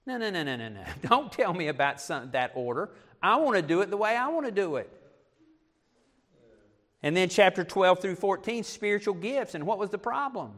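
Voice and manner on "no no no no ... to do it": mock stubborn protest; self-willed refusal. Preacher mimics church members rejecting God's order, mildly defiant. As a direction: play a member digging in their heels.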